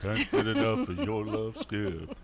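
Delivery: slow crooning soul singer bit. Pretend. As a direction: croon it slow like a soul singer. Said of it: "you hear a soul singer in the bathroom".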